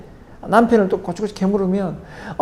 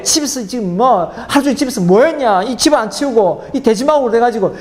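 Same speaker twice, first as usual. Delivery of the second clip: blunt harsh scolding; 3 semitones higher than usual. Retold or imitated. Husband scolding wife over the messy house, mock harsh. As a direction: play a husband snapping at the messy house, half-acted. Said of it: "그냥 강하게".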